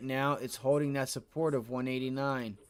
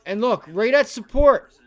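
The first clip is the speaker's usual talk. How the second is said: excited yell, much higher and louder; 8 semitones higher, 14 dB louder than usual. Real, not acted. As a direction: shout it out at the chart. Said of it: "Sorry to yell".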